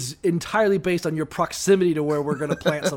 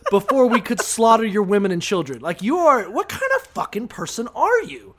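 hammed-up indignant Joshua, higher and louder; mock outrage; 4 semitones higher, 5 dB louder than usual. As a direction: play Joshua scolding like he's the victim. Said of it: "the idea of Joshua getting angry".

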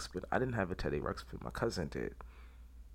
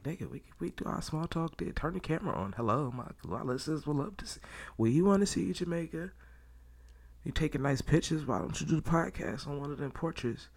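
higher, excited scolding of a friend abroad; egging him on, half joking; mock scolding rant; 5 semitones higher than usual. Speaking to the friend in Jamaica, playful scolding. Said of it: "I'm like".

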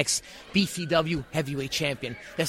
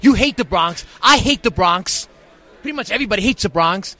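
angry promo; 2 semitones higher, 6 dB louder than usual. Acted. Heel promo against rival group.

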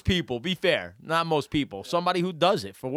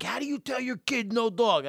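higher-pitched mimicked question; incredulous questioner; 8 semitones higher than usual. Other parents asking a dad, incredulous. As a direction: mimic baffled people in a higher voice. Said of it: "Everyone's like".

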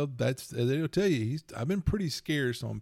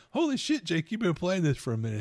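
much higher, astonished; mock amazed; 7 semitones higher than usual. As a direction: gasp at the kid's fancy car. Dad amazed at son's car.

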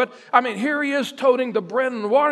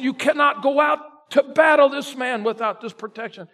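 firm insistence; 3 semitones higher than usual. Acted. Saul insisting on armor.

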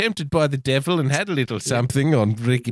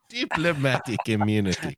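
mimicked South African accent; playful South African accent attempt; 4 dB quieter than usual. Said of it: "in a South African accent".

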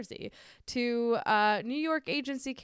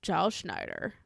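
radio news intro; 4 dB louder than usual. Retold or imitated. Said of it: "and then it's, like".

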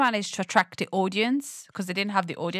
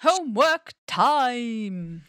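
strict teacher; 5 semitones higher, 3 dB louder, much slower than usual. Pretend. Mock teacher addressing the class.

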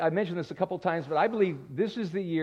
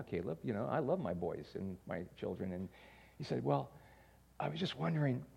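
nervous son; 3 semitones lower, 4 dB quieter than usual. Retold or imitated. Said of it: "he said to me with fear and trembling".

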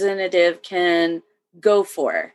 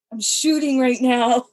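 laughing through the words; giggling as she admits it; amused laugh breaking into the line; 8 semitones higher than usual. Real, not acted. Laughing while retelling the call.

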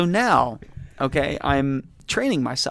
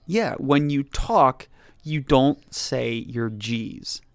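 retold boss; much slower than usual. Acts out boss breaking the news.

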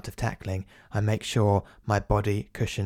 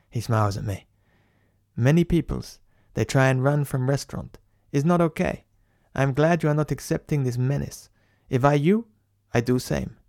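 put-on accented big bloke; 2 semitones higher than usual.

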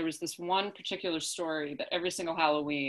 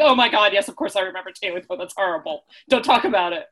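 horrified; 8 dB louder than usual. Retold or imitated. Classmates' horrified reaction again.

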